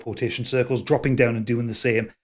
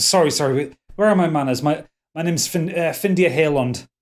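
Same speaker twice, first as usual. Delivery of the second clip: flustered apology; 4 semitones higher, 4 dB louder than usual. Acted. Flustered elf introduces himself.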